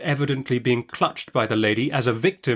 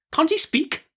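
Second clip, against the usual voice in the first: much higher, exasperated cry; impatient. A narrator's reading. The aunt, out of patience with the doctor, impatient. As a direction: snap at him to get on with it. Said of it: "cried my aunt impatiently".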